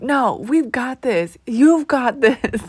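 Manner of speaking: slow, encouraging reassurance; calm hype-up, drawn out; slow reassuring hype. Retold or imitated. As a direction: talk a friend into courage. Friend hyping her up.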